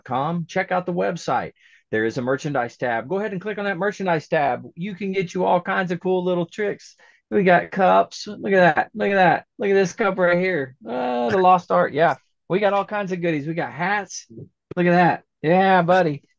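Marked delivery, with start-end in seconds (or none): 5.1-16.2 excited sales pitch. Real, not acted. Hyping merchandise to listeners.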